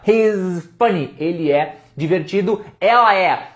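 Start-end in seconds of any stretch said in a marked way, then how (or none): 0.1-1.2 slow "he's funny" with a buzzing z in "he's"; drawn-out "he's funny"; slow demo. Shown as a demonstration. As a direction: lean on the z sound. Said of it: "Lá na tela".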